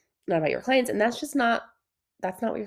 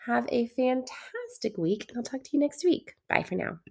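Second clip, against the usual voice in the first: sick, stuffy nasal voice; 3 semitones higher, 4 dB louder than usual. Real, not acted. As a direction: talk through a blocked nose. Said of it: "Sorry that I sound so nasally and sick".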